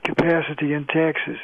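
"capacity" and "taxes" with A sounded as "air". Shown as a demonstration. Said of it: "gonna be pronounced as air".

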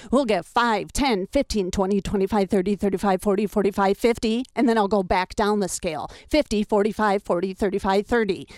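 rhythmic counting up and back down the number scale; number scale drill. Shown as a demonstration. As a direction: rattle off the numbers in an even warm-up rhythm. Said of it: "like this".

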